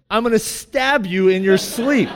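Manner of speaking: exaggerated comic death threat; mock threat. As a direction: imitate a furious spouse's threat. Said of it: "What it sounded like was".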